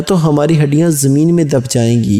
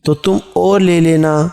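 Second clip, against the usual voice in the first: put-on girl's voice; 2 semitones higher than usual. Girlfriend answering her boyfriend about ice cream, lightly voiced. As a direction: play the coy girlfriend lightly. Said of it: "لڑکی".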